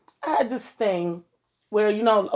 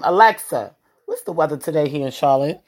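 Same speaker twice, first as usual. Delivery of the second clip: talking to voice assistant; 4 dB louder than usual. Real, not acted. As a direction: speak up clearly for the smart speaker. Asking Alexa the weather.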